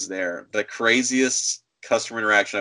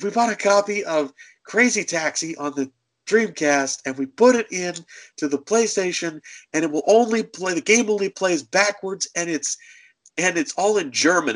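higher-pitched imitation of a griper; a hint of a put-out caller, higher; complaining customer; 6 semitones higher than usual. Woman making an absurd complaint to the clerk, mock aggrieved.

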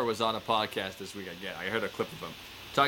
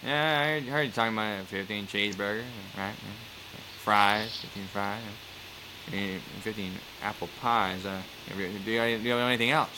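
Norm Macdonald; 3 semitones lower than usual. Retold or imitated. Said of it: "And he goes".

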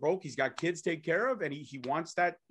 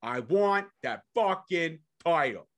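wrestler promo; slower than usual. Retold or imitated. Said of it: "that was Jordan Oliver".

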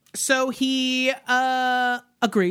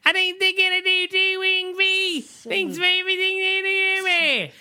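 put-on Australian accent; 12 semitones higher than usual. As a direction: ham up a cartoonish Australian voice. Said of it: "Are you asking for my Australian accent?".

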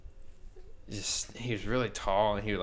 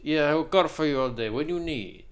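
lightly voiced sketchy car dealer, a bit higher; a touch of the creepy salesman's swagger; 6 semitones higher than usual. Creepy dealer offering a car, lightly imitated. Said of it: "And he was like".

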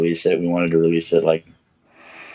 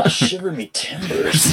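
pirate exclamation; 10 semitones higher than usual. Shown as a demonstration. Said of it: "I say".

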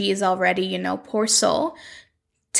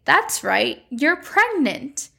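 mock big reveal; 5 semitones higher, slower than usual. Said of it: "and the doctor's like".

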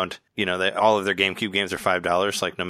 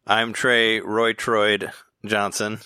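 silly slow announcer voice; much slower than usual. Pretend. Goofy slow name intro.

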